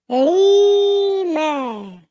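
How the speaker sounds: drawn-out shout. Pretend. Drawn-out called word.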